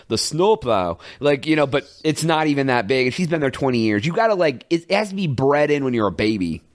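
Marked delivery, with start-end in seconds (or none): 0.1-1.0 long Minnesotan O in snowplow; mom's Minnesota accent. Retold or imitated. Imitating mom's bit of accent, long Minnesota O. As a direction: stretch the first O of snowplow like a Minnesotan. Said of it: "she'll get that l-, along, like".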